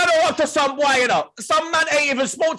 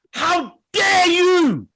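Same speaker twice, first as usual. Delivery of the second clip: mock outraged shout; 6 semitones higher, much slower than usual. Mock outrage at trolling rival.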